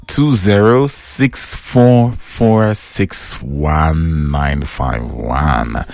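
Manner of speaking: number read out slowly, digit by digit; a slow, careful read of the digits; slow dictation. Shown as a demonstration. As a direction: spell out the phone number slowly so they can write it. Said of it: "make you ring, ring me".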